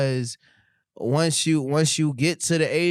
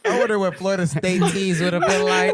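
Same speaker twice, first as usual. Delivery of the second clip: laughing; 4 semitones higher than usual. Real, not acted. Laughing along at the story.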